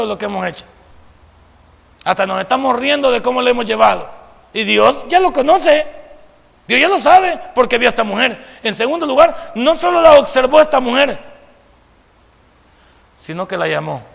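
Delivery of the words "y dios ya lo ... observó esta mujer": raised, driving preacher voice; emphatic preaching. Real, not acted. Preacher tells congregation God already knows, emphatic preaching. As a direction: preach it higher and louder.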